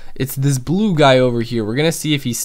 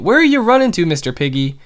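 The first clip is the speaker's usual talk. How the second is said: much higher teasing call; playful call; 4 semitones higher, faster than usual. Real, not acted. Gamer chasing a pig, playful high call. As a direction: tease the runaway pig. Calling after fleeing pig.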